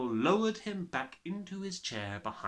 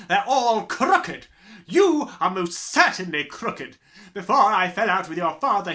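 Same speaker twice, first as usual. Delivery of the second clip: loud, high, booming tyrant voice; bullying headmistress; 8 semitones higher, 10 dB louder than usual. Acted. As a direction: gloat like a brutal headmistress. Trunchbull threatening Matilda.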